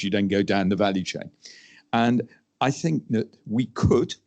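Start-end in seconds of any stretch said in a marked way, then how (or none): 1.9-4.1 slow, with could leaned on and rising; stress on could. Real, not acted. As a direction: draw out the phrase and lean on could. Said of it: "I do emphasize the word could".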